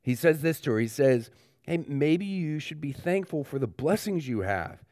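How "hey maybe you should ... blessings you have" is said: gently acted encouragement, a little softer; understated, tender brotherly counsel; loving encouragement. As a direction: softly offer kind advice to a sad sister. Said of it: "he encourages her with love".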